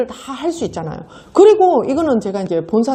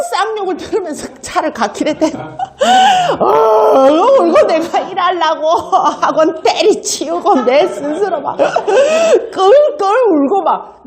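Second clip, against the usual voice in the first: half laughing, half crying while retelling; laughing through the memory; 7 semitones higher than usual. Real, not acted. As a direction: laugh ruefully through a sad story. (울던 기억을 웃음 섞어 이야기하며)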